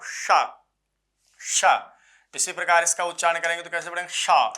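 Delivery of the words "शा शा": शा said with a strong rush of breath; sha demo. Shown as a demonstration. Teacher to students, showing how to pronounce शा, breathy. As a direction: push air hard through शा. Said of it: "कैसे करेंगे आप?".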